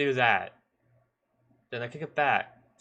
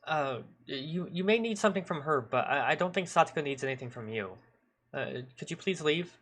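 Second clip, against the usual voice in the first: higher, hesitant polite objection; awkward pushback; 4 semitones higher than usual. Acted. Boy nervously asks a stranger to leave, awkward pushback. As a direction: stammer a reluctant request to leave. Narrator voices boy's awkward blunt reply.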